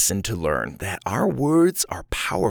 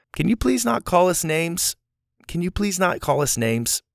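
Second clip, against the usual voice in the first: polite, measured request; nice feedback; 6 semitones higher than usual. Shown as a demonstration. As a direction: ask kindly but firmly for it to stop. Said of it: "give feedback in a nice way".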